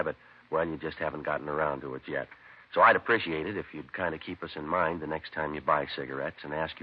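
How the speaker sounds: friendly sponsor pitch; star's radio commercial; ad read. Acted. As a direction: sell the cigarettes warmly. Star reads sponsor ad.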